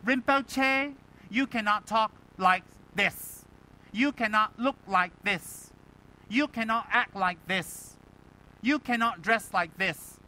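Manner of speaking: high, loud, slow admonishment; stern rule-laying. Acted. Students laying down rules to their Rinpoche, sternly. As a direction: spell out each prohibition with heavy, measured emphasis.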